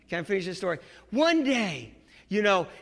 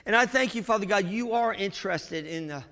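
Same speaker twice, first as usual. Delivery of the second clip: prayer. Real, not acted. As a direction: lead the church gently in prayer. Closing prayer.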